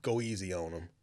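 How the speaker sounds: low, soft retold plea; hushed low voice for an acquaintance; Flojo. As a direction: imitate him quietly asking for leniency. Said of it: "as Flojo's like".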